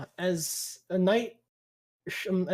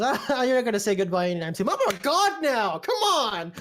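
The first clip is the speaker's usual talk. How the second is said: boisterous god voice; 5 semitones higher, 3 dB louder than usual. Acted. Jubilant god character.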